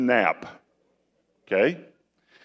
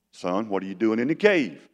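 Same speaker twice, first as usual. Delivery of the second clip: gentle; 4 semitones lower than usual. Retold or imitated. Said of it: "He's so gentle with him".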